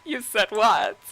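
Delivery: lightly voiced smug queen; Sylvanas gloating. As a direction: taunt with a sly singsong laugh. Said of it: "And Sylvanas is like".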